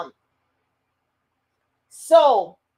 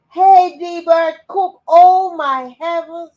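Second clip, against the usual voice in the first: high, loud excited greeting; 7 semitones higher, 10 dB louder than usual. Real, not acted. Spotting an old friend live.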